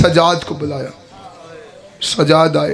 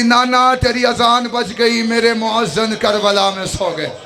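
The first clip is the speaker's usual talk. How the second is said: weeping lament. Acted. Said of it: "बीबी रो के कहती".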